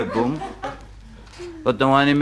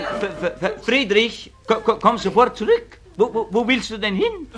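put-on much higher stammering call after a boy; teacher shouting after Friedrich, much higher; stuttering teacher yelling; 9 semitones higher than usual. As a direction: call the boy back, pitch way up. Teacher yells after leaving boy.

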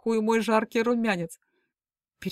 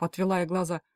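ordinary delivery

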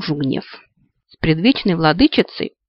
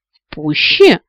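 a much higher, louder alarmed echo; a flash of mild panic; light panic; 10 semitones higher, 7 dB louder, slower than usual. A narrator's reading. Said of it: "в лёгкой панике переспросила".

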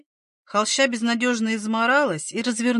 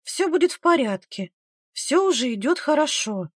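put-on higher, reassuring young midwife; encouraging; 5 semitones higher than usual. A narrator's reading. Young midwife encouraging a woman in labour, encouraging. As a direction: reassure her brightly as things go well. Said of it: "ободряюще улыбнулась молодая повитуха".

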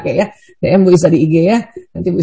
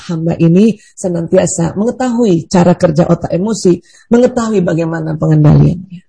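demo prayer; 3 semitones lower than usual. Shown as a demonstration. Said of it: "nanti habis sholat kita terima ya".

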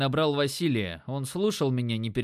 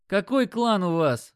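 slow, loud and higher, leaning on him; pressing demand; 6 semitones higher, 4 dB louder than usual. A narrator's reading. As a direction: demand it slowly, with weight. Dimon presses the pinned dealer.

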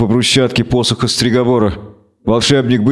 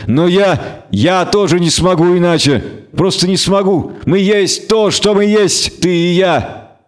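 higher, intense, stumbling on я; fateful Renfri; 6 semitones higher, slower than usual. Acted. Renfri tells Geralt they cannot change, intense. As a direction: insist there's no other way.

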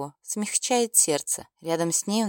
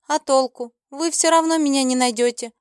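louder, higher, sure of herself; confident, taunting; 6 semitones higher, 6 dB louder than usual. A narrator's reading. Girl taunts the dark lord, confident and louder. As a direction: she taunts him, certain he can't find her. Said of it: "она с уверенностью цокнула языком".

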